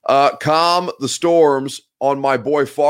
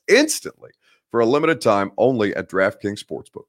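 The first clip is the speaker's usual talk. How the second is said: ad read. Acted. Host reads sponsor ad.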